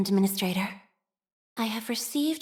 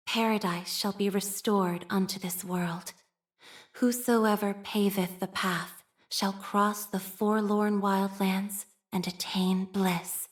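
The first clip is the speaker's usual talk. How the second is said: scripture recitation. Acted. Nun reciting scripture to the Administrator, solemn. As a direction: read it like holy writ.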